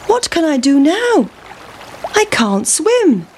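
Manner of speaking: worried pancake. Acted. Pancake stuck at the river.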